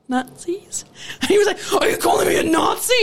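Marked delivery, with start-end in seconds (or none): 1.8-2.9 raised, indignant retold shout; mock outrage. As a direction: imitate an offended boss. Retold outraged reply in quarrel.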